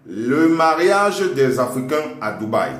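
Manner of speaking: dictating. Shown as a demonstration. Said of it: "marquez dictée".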